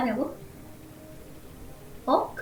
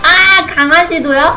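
surprised; 4 semitones higher, 12 dB louder than usual. Real, not acted. Surprised at a game result.

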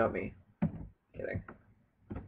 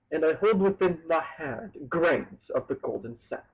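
tag; 3 semitones higher, 3 dB louder than usual. Acted. Recites poem from the game.

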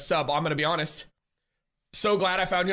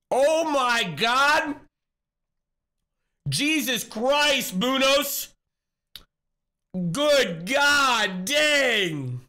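choked up; 6 semitones higher, 4 dB louder, much slower than usual. Real, not acted. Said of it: "hold on, I'm a little choked up".

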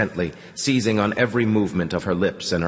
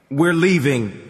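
raised, louder barked order; 7 semitones higher, 5 dB louder than usual. A narrator's reading. Man orders his old companion to leave, barking. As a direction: bark it as a command. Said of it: "he barked to the old man".

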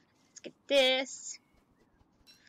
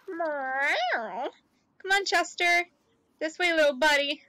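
calling a pet; 3 semitones higher, 5 dB louder, slower than usual. Real, not acted.

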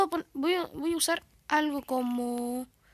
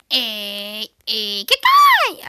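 loud greeting; 2 semitones lower, 12 dB louder, much slower than usual. Acted. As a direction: belt out a goofy hello. Greeting in new skin.

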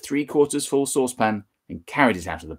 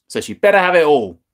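gleeful; 5 semitones higher, 8 dB louder than usual. Acted. George gleeful over the mixture.

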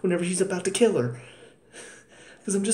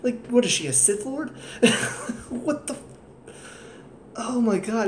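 incredulous; 5 semitones higher than usual. Real, not acted. Incredulous at a plot point.

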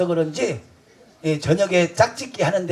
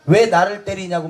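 retold angry shout; 3 semitones higher than usual. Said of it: "막 내가 확 화를 냈지".

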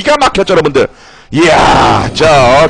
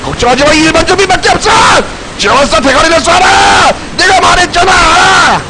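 shouted commands; 4 semitones higher than usual. Real, not acted. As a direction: holler orders over the fight. 전투 중 팀에게 외침. (팀원들에게 외치는 호령)

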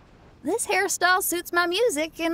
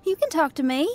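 gentle concern; 5 semitones higher than usual. Real, not acted. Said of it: "Why are you crying?".

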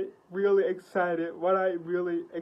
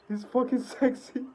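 higher, more emphatic repeat of "He's fucking sexy"; 4 semitones higher than usual. Real, not acted. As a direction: punch "fucking" with excitement.

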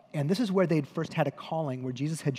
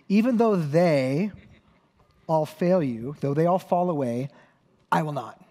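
emphatic vow; 5 dB louder than usual. Acted. Peter's bold vow retold.

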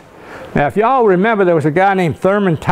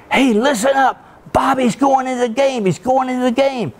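imitating dad; 8 semitones higher than usual. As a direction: play the excited father calling the family to the radio. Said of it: "my dad's probably saying".

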